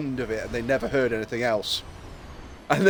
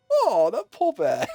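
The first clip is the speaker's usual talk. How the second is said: high, slow mock pity; 8 semitones higher, slower than usual. Onlookers pitying the crying bear, mock pity. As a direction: coo over the poor bear.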